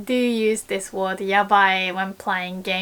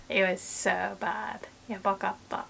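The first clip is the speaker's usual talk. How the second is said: softer, down-turned "yabakatta"; dejected; 7 dB quieter than usual. Shown as a demonstration. Describing a bad class, softer and dejected. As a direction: sound let down. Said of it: "then it's like".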